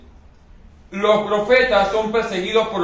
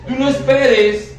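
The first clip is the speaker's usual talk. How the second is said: slow and loud, leaning on esperes; preacher's emphatic warning to the congregation; 6 semitones higher, 5 dB louder, slower than usual. Real, not acted. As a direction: hammer out "tú no esperes" slowly.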